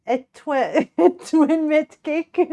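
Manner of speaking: high, slow cutesy voice, breaking into a laugh; put-on uwu voice. Streamer attempting an uwu cake line, put-on cutesy voice. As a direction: stretch it out in a silly high voice. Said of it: "let me try".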